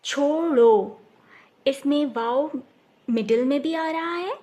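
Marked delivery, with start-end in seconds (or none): 0.0-1.0 छोड़ो said loud with a stressed ओ; loud demo word. Shown as a demonstration. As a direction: call out छोड़ो, leaning on the ओ. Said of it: "ओ की होगी". (ज़ोर से छोड़ो, ओ पर दबाव)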